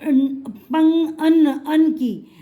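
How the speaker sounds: drawn-out अन and पंग, nasal ng held long; slowed nasal sound demo. Shown as a demonstration. Teacher to child, slowly sounding out the nasal. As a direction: stretch अन slowly so the nasal rings. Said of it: "इसमें हमारी sound आ रही है".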